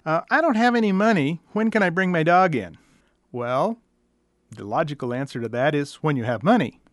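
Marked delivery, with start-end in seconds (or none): 0.3-2.8 pleading client. Retold or imitated. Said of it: "somehow it irritates me".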